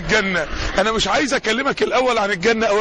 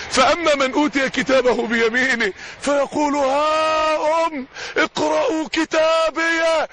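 high, slow, ecstatic call; joyful cry; 4 semitones higher, slower than usual. Acted. The saved believer showing his record to all, high and joyful. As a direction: call out the verse in triumph.

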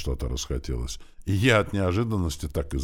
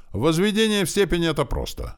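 high, loud, delighted declaration; openly happy; 13 semitones higher, 4 dB louder than usual. A narrator's reading. Pupil relieved to know the answer, openly happy. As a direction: burst out with happy confidence. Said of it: "я был откровенно счастлив".

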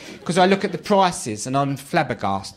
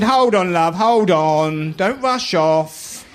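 mock urgent call; 3 semitones higher, 4 dB louder, much slower than usual. Stopping the waitress.

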